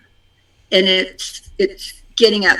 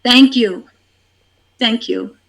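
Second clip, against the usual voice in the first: gentle gratitude prayer. Shown as a demonstration. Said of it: "And then".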